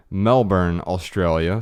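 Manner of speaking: Melbourne with the r sounded, MEL-burn; American pronunciation. Shown as a demonstration. Host introduces a caller from Australia, American pronunciation. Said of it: "in what I would say".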